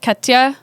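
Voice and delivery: "Katya" with a short front a, KAT-ya; German pronunciation. Shown as a demonstration. Speaker showing how a German would say her name, German pronunciation. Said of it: "say it like a German would".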